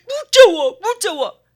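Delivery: put-on high, loud frightened child; imitating a frightened little girl; scared child. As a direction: whimper it like a terrified toddler.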